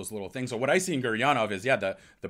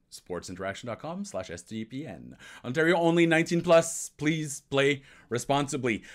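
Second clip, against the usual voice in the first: smooth, upbeat ad-read voice; sponsor ad read. Acted. Host reading a sportsbook ad to listeners, polished ad read. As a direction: sell it like a sports betting spot.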